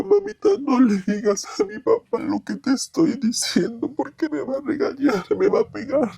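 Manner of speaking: put-on child begging. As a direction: beg like a frightened little boy. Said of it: "llorando me suplicaba". (súplica de niño asustado, voz más aguda)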